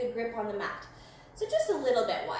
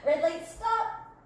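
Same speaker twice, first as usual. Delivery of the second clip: game calls. Shown as a demonstration. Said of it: "when I say green light".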